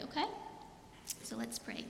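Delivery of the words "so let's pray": hushed whisper before prayer. Real, not acted. Pastor hushing the children before prayer, whispered. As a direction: whisper it to settle them.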